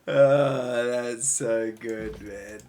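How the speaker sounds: loud, drawn-out delight; slow, loud, delighted exclamation; real delight. Real, not acted. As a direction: savour it loudly, stretching the words. Delighted after laughing.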